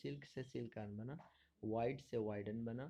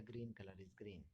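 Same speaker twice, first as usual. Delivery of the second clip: very slow, word by word; slow model sentence; 2 semitones lower, 6 dB quieter, much slower than usual. Shown as a demonstration. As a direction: say it slowly for the class to copy. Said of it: "teacher slowly models example sentence".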